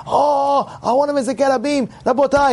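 high-pitched, over-eager do-gooder; mock announcer. Teacher mimics a man interrupting the study hall, mock announcement. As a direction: imitate someone calling the room to attention.

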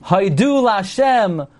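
"haidu lashem" with DU and SHEM stressed; slow "haidu lashem", weight late in each word; stress on last syllable. Shown as a demonstration. Teacher contrasting it with the other phrase, DU stressed in "haidu lashem". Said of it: "haidu remains a milra".

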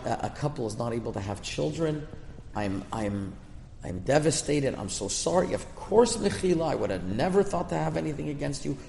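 a retold teary apology that builds to pleading; mild retold crying apology; tearful plea. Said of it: "started crying".

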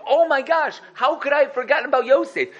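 mock self-scolding yell. Butler yelling at himself over forgetting Yosef, mock dismay. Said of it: "the butler was yelling at himself".

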